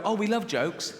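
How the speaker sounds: high, keen pensioner voice; a hint of chirpy elderly chorus; eager old people. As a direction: lightly mimic delighted old folk. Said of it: "all the old people go".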